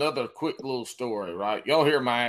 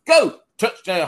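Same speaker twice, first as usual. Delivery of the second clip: loud, high cheering burst; mock cheering; 8 semitones higher, 10 dB louder than usual. Retelling the bartender's texts, high excited cheer. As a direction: yell it like a touchdown was scored. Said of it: "she texts".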